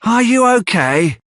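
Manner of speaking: high, fussing concern; high mistress fretting over Noah; Missus Sowerberry, fussing. Acted. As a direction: fuss over your favourite. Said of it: "she says".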